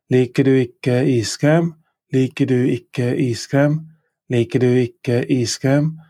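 "Liker du ikke iskrem" rising on "iskrem"; Norwegian question. Shown as a demonstration. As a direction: ask "Liker du ikke iskrem" as a clear model. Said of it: "Don't you like ice cream?".

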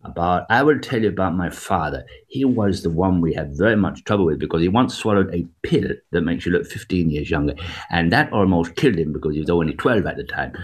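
homely Danish-American comic storyteller; Victor Borge. Acted. Doing the comedian's joke about his father, homely accented impression. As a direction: imitate the comedian telling a family joke in accented English. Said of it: "he had a way of talking very, in a very homely way".

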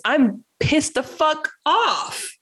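mock pissed off. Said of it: "being on your side is".

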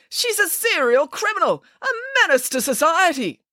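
high-pitched, indignant denunciation; crying out accusation. A narrator's reading. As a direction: denounce her to the room, pitch well up. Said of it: "cried Mister Green".

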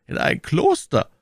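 "In ein Kloster" as a lifted, startled question; surprised question. A narrator's reading. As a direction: echo the news in astonishment. Duke questions the news.

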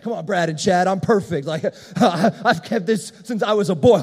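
cocky, mock self-righteous boast with a laugh. Rich young ruler boasting before his posse, mock self-righteous. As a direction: brag to your posse, hammed-up. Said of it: "so self-righteous. You can imagine".

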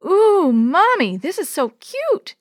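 put-on high, slow, gushing toddler; little girl voice. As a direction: coo it like a delighted small child. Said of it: "exclaimed Yo-Yo".

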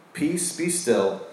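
soft, slow "Peace, be still"; Jesus stilling the sea, hushed and slow; hushed calm command. Acted. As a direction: let it settle, slowly and gently. Quoting Jesus calming the sea.

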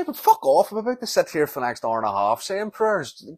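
loud, high exasperated outburst; indignant retort. Retold or imitated. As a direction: snap back at the shushing mum. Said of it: "You say".

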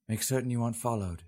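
warning. A narrator's reading. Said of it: "she warned".

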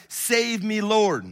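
loud pleading cry of Peter; desperate plea to the Lord; cried out. Retold or imitated. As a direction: cry out for rescue, loud and high. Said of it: "he cries out".

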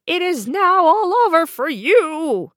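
high, loud triumphant cry; evil queen. A narrator's reading. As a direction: gloat over her victim. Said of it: "cried the wicked queen".

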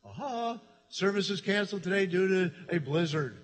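light up with delight at the notion; excited. Retold or imitated. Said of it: "I said".

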